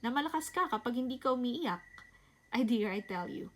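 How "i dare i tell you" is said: whisper. Acted. Vlogger confiding to her viewers, whispered. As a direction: lean in and whisper it like a secret.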